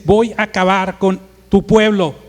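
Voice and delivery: mildly blunt, punchy threat; lightly voiced God in a heated dispute. God tells Moses he will finish them, mildly blunt. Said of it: "así se hablan Dios y Moisés".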